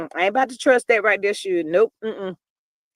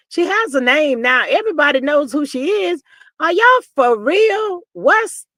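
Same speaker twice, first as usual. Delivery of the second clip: loud, incredulous questioning; exasperated rant; 3 semitones higher, 4 dB louder than usual. Real, not acted. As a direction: demand answers, voice raised and emphatic. Ranting about the unnamed girl.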